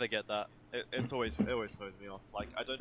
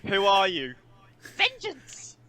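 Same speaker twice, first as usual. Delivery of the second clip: a much higher, louder, strained mock growl; Batman voice; 9 semitones higher, 10 dB louder, much slower than usual. S1 plays Batman answering a heckler, hammed up. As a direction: ham up a gravel-voiced superhero. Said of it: "Batman twenty twenty-three is my character".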